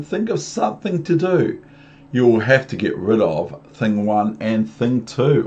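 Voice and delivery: loud storybook warning, emphatic; alarmed fish. Acted. Fish warning the children that mother is near, urgent. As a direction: warn loudly, leaning on the key words. Reads the fish's warning aloud.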